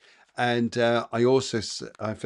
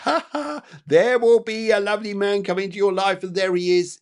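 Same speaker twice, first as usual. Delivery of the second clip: laughing; 9 semitones higher, 8 dB louder than usual. Real, not acted. Laughing as she foresees a man.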